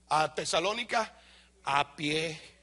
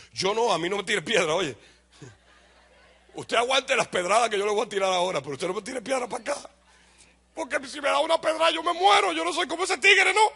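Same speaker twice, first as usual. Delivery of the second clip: put-on Dominican accent; 4 semitones higher than usual. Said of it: "Me salió el dominicano".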